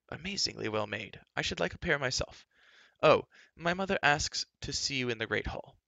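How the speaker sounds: lightly voiced high, chatty young prince; a touch of a lofty, cheerful prince; breezy prince. A narrator's reading. Prince Run greeting the shoemaker, lightly voiced breezy prince.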